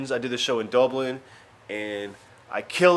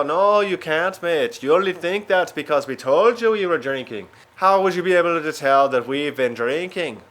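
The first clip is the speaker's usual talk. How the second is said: higher mock Yorkshire accent; Yorkshire guys; 3 semitones higher, 3 dB louder than usual. Drunk Yorkshire guys contradicting the comic, mock Yorkshire accent. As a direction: argue back like a Yorkshire bloke. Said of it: "the Yorkshire guys said".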